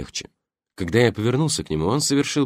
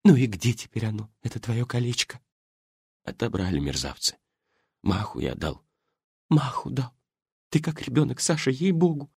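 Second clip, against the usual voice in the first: put-on high old woman scolding tenderly; old lady's voice; 7 semitones higher than usual. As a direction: fuss over him like a worried wife. Голос старушки. (жена отчитывает раненого мужа, высокий старческий голос)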